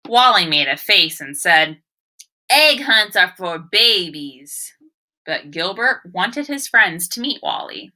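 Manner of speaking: put-on story read to children. Teacher reads the story aloud.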